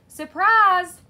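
high, loud surprise shout; excited shout. A narrator's reading. McWhiskers surprising P J with a candle, shouted. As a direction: shout it out, drawn long and high. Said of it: "McWhiskers shouted".

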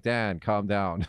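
slow, soothing mock plea; talking an angry colleague down, slowly; calming. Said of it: "I'm like".

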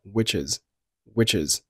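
"which is" joined into one word; linked sounds. Shown as a demonstration. Teacher demonstrating linking to learners, "which is" joined. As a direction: run the ch of "which" into "is". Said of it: "Which和is连读成了".

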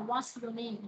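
"name" drops at the end; falling tune on name. Shown as a demonstration. Teacher models a WH question, falling tune. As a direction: let "name" fall to close the question. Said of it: "chữ name nó đi xuống".

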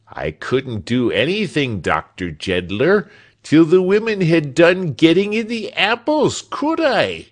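indignant servant, climbing to high and loud; self-justifying protest that swells to very loud at the end; voice rising. A narrator's reading. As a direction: start near normal, build to a high, loud protest. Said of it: "his voice rising with his reasoning".

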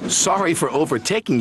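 teasing. Acted. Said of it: "teased Thomas".

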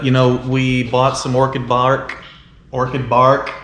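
drawled Alabama accent on orchid bark. Shown as a demonstration. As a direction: say it with a Southern Alabama twang. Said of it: "I'm using my Alabama accent with that".

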